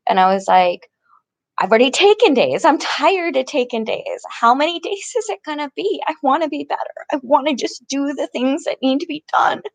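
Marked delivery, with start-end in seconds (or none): 1.6-9.6 upset complaint. Retold or imitated. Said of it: "And I got even up more upset".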